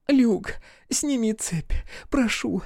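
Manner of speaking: высокий медленный крик мольбы; кричит, умоляя, высоко. A narrator's reading. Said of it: "кричала она". (горящая Амелия умоляет Люка)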